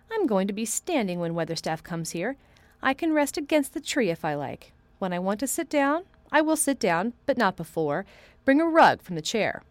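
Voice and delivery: lightly voiced, commanding young boy; determined boy. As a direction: announce it like a little lord.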